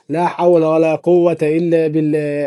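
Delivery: slow, drawn-out exclamation of dismay; half-laughing horror at the result; dismayed groan. Real, not acted. Bad result of his own photo.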